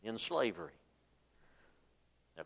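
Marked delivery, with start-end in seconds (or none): 0.0-0.7 whining, then trailing off; mock the complainers' sigh; mock griping. Preacher mocking the griping Israelites, whiny. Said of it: "they start griping and complaining and saying".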